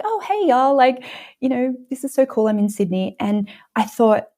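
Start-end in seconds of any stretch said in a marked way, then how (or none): 0.0-3.2 lightly voiced Oprah, high and easy-going; breezy, relaxed celebrity greeting, pitched up; casual high-pitched hello to fans; chill Oprah. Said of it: "she came out just so chill".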